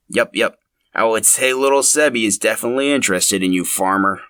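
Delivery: put-on calm the stranger down like a friendly old mountain man; old man Linus. Linus reassures the startled farmer, lightly voiced folksy old man.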